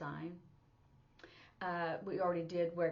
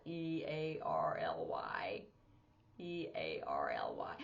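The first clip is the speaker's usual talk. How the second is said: whispered spelling; 13 semitones lower, slower than usual. Shown as a demonstration. Teacher recalling learners, whispering the spelled letters. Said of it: "you would spell it".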